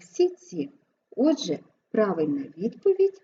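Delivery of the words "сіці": "сіці" with soft s before soft ts. Shown as a demonstration. Teacher showing how шці sounds, soft s-ts. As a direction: soften both consonants in "сіці". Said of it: "шиці вимовляємо як".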